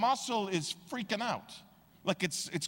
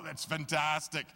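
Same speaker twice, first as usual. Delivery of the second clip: laughing relief. Retold or imitated. Relief from water bottles.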